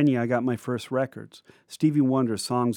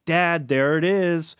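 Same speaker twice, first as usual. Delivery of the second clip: higher, slow excited shout spotting the trees; excited yell; 6 semitones higher, 3 dB louder, slower than usual. Retold or imitated. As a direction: call out to dad, pointing at the lot. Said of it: "my brother yelled".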